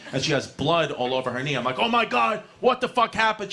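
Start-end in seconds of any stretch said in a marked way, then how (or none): 1.8-3.5 higher, alarmed oh my God; startled mock panic; shocked yell. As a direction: freak out at mom's bloody knee. Voicing himself to mom.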